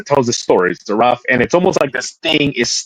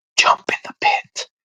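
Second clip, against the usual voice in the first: hoarse, breathy whisper. Retelling what a ghost recording says in Slavic: imitating a hoarse whisper. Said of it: "hoarse whisper".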